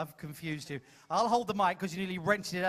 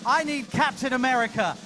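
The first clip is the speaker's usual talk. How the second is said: louder showman build-up; hype announcer; 3 semitones higher, 3 dB louder than usual. Real, not acted. Host calling a hero volunteer on stage, hyped. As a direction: sell the hero to the crowd.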